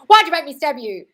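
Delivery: loud, high hammed-up outrage; mock yelling. The killer blaming the stabbed victim, mock yell. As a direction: scold the victim absurdly. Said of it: "you start yelling at the dead body".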